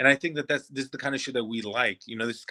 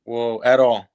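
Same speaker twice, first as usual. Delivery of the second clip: surprised; 8 dB louder, slower than usual. Real, not acted. Disbelief that co-host disliked it.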